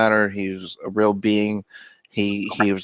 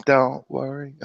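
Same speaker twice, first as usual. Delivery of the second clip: whispering; 5 semitones higher, slower than usual. Pretend. Whispered reggae song line.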